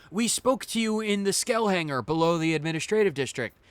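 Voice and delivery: loud, high excited outburst; excited recognition. Acted. Christopher recognizing the player, loud and excited. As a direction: burst out remembering who he is.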